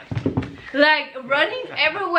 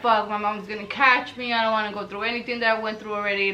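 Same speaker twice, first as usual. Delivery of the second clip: scared muttering; 5 semitones lower, 4 dB quieter than usual. Retold or imitated. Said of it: "I'm literally, like, shaking".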